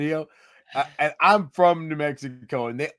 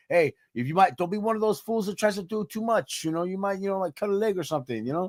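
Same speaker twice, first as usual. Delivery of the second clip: a hint of a laid-back Chicano guy, softer; easy cholo advice voice, lightly done; lightly done Chicano drawl; 4 dB quieter, faster than usual. Cohost imitating a friend who talks that way, lightly done. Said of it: "he talks like that".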